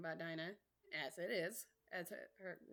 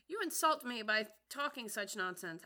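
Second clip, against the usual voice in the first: offended; 2 semitones higher, 7 dB louder than usual. Acted. Offended mouse.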